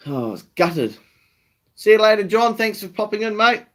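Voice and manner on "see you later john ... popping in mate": cheery farewell. Real, not acted. Farewell to a viewer in chat.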